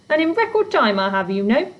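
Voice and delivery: gruff, busy goblin; grumpy goblin voice. Acted. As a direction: brush her off grumpily. Fletch's voice.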